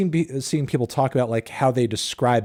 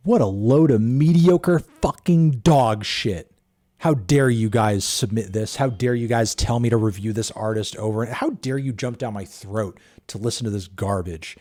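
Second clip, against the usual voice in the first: mock angry rant. Streamer fakes fury at viewers for suggesting the track, mock angry rant. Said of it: "No, I'm kidding".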